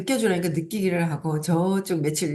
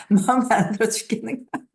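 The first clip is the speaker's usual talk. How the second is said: higher-pitched, amused telling through laughter; laughing while telling; 5 semitones higher, 3 dB louder than usual. Real, not acted. Speaker recounting irritation at husband's nagging, laughing as they tell it.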